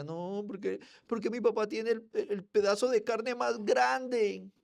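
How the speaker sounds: put-on high, whining little boy; whiny child. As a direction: whine like a spoiled kid.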